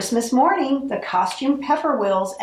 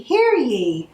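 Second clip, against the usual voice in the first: higher, ringing hear ye repeated; herald's cry; 4 semitones higher, 3 dB louder than usual. Acted. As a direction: call "hear ye" out again like a town crier. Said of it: "the elves cried".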